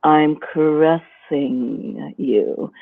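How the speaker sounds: slow, lingering seductive line; a lightly drawn-out seductive purr; caressing seduction. Shown as a demonstration. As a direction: stretch it out like a caress. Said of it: "the seduction voice is more of a".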